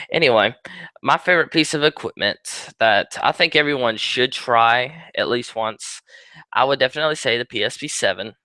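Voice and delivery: ordinary delivery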